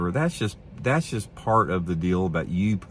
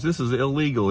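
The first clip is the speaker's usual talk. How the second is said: higher, mock-indignant retelling; mock angry loudmouth; 7 semitones higher than usual. Loudmouth scolding the angler, mock indignant and high. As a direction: huff it out like the pushy guy. Loudmouth guy insists it's illegal.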